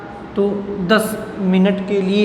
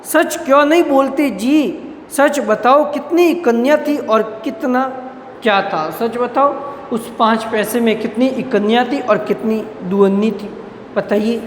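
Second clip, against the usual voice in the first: stern telling-off, pitch raised at the start; scolding sternly; 2 semitones higher than usual. Acted. Writer scolds silent boy, demanding the truth sternly. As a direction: scold the boy to make him speak the truth. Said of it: "डपट कर कहा".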